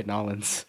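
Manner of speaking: "Nolans", New Orleans squashed into two syllables; run-together pronunciation. Shown as a demonstration. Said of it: "I've heard people say".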